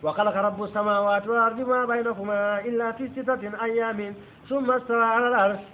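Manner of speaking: rapid Arabic verse, rattled off; very fast Arabic recitation. Shown as a demonstration. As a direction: recite the Quran line at great speed. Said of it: "Why did Allah say".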